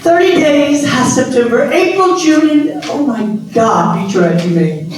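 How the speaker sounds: hammed-up dramatic line reading, pitched high; overacting the line badly; bad acting. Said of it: "Only she didn't deliver it like that".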